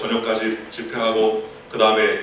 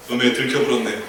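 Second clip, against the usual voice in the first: Jeolla dialect. Retold or imitated. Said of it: "전라도 사투리로 계속 하면서".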